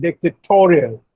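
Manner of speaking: "dictatorial" with the weight on "to"; stress on TOE. Shown as a demonstration. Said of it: "the stress is on toe".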